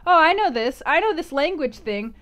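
high, loud, overconfident burst; playfully acted excited brain; eager recognition. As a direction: jump in like an overeager know-it-all. Voicing an overeager brain recognizing words.

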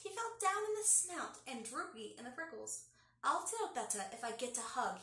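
put-on lively read-aloud for kids; story narration. A narrator's reading. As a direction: read it like storytime for little ones. Reads picture book aloud.

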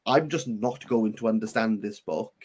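ordinary delivery

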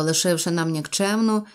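usual speaking voice

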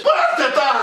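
high, gloating laugh-shout; laughing taunt. Real, not acted. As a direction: jeer at them through a laugh. Fan taunting rivals, laughing.

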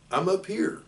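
high, small voice calling down; a baby spider pipes up from the web; tiny spider voice. A narrator's reading. Tiny spider calls down to Wilbur, high and small. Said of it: "another tiny voice".

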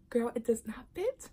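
unvoiced confessional whisper. Bride confessing to sister the dress does not fit, whispered. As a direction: whisper the bad news to your sister.

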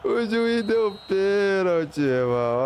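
high, drawn-out disbelieving cry; outraged. Real, not acted. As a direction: cry out at the referee's call. Penalty given against his team.

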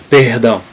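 "Perdão" with a throaty French-like r in the middle; Carioca R. Shown as a demonstration. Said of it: "is perdão".

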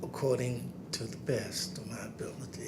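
whispered oath. Real, not acted.

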